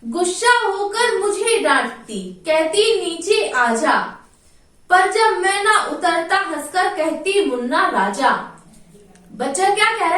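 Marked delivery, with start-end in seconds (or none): 0.0-8.3 sing-song poem recital, lightly chanted; poem recitation. Acted. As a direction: recite the verse to the class in a lilting chant.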